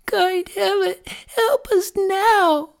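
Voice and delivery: put-on very high, slow little-girl plea; Gretel crying out. A narrator's reading. Gretel begs heaven for help, crying out. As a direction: plead as a poor little sister, pitched high. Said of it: "she cried".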